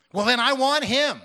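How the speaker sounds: high and loud, full of joy; eager declaration. Retold or imitated. Woman eagerly declaring to the minister that she wants Jesus. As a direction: she seizes it at once.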